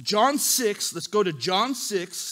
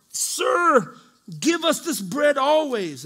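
high, louder acted crowd demand; mildly hammed-up pleading, pitched up; eager plea; 4 semitones higher, 5 dB louder, slower than usual. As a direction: call out the crowd's eager request.

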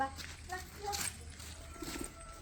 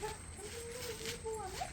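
gentle coaxing; 5 semitones higher, 10 dB quieter, slower than usual. Real, not acted.

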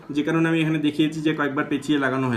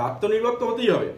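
mock politician's slogan, higher; political intonation; 4 semitones higher than usual. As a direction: say it like a stump-speech slogan. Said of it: "ওই রকম political intonation".

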